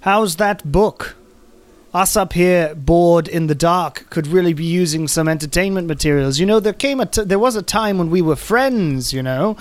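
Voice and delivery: taunting prisoner calling up to a bored guard; Abby's voice. Acted. Abby taunts the guard Costa from her cell. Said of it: "And Abby goes".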